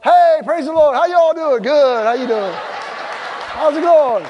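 loud, high, gushing church greeting; put-on cheeriness. Feuding couple greeting church people as if all is well, loud fake cheer. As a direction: turn on sudden hearty friendliness.

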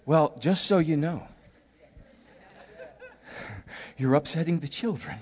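soft, low mock warning; lightly voiced wife quietly chiding; wife's gentle warning. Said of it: "She says".

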